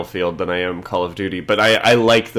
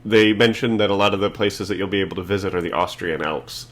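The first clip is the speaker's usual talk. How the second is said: passionate. Real, not acted. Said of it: "I am legitimately excited".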